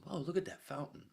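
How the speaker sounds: high, hushed whisper of wonder; half-awake whisper, amazed; dazed whisper. Retold or imitated. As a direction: whisper it like a groggy drunk seeing something pretty. Waking up, retelling own reaction.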